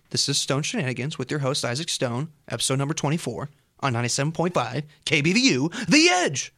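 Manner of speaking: upbeat radio DJ voice; station ID with energy; radio announcer. Acted. Radio host ID.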